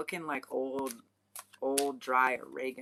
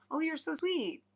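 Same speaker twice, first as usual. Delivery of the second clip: high-pitched mock cooing; mock gushing; 12 semitones higher than usual. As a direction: coo it as an exaggerated compliment. Mimicking the other sense of sweet.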